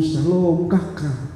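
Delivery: slow, soft gentle greeting; lembut. Retold or imitated. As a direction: greet the child tenderly and slowly. Gentle greeting to one's children. (sapaan lembut dan pelan)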